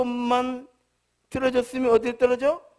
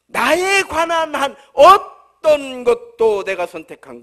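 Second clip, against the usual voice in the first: louder with each clause, slowing at the end; building sermon list; 5 semitones higher, 7 dB louder than usual. Acted. Preacher telling his congregation nothing was chosen, building.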